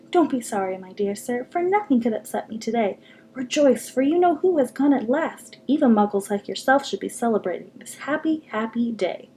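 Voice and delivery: put-on lightly squeaky, joyful old man; a hint of a squeaky little old man, rejoicing. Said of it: "he said in a squeaky voice".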